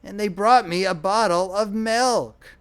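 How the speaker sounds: put-on old man outraged at the milk; shrill protest. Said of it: "his voice rose to a shrill note of protest".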